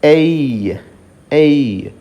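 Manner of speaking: "ఏయ్" glided from e to i; diphthong demo. Shown as a demonstration. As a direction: say "ఏయ్" sliding into i. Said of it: "ఈ రెండింటిని కలిసి మనం ఎలా పలకాలంటే". ("ఏయ్" ను ఎ నుండి ఇ కి జారుతూ పలకండి)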